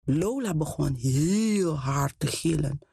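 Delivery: usual speaking voice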